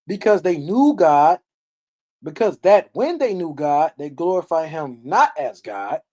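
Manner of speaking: slow, weighty reading of the verse; emphatic scripture reading. Acted. Preacher rereading the verse to the congregation, emphatic. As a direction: drive the verse home slowly.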